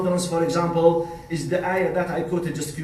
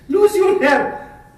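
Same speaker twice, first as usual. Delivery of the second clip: laughing; 14 semitones higher, 7 dB louder, slower than usual. Retold or imitated. Retelling a doctor's promise.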